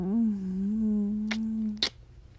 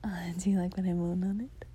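whispering; 2 semitones lower, 3 dB quieter than usual. Acted. Whispers throughout, intimate.

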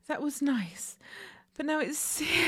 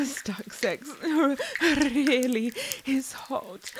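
laughing; slower than usual. Real, not acted. Laugh heard.

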